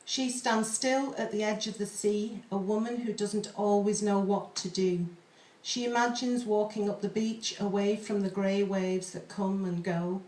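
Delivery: slow, measured poetry reading; poem reading. Acted. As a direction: read the pantoum slowly, hauntingly. Reads a pantoum aloud.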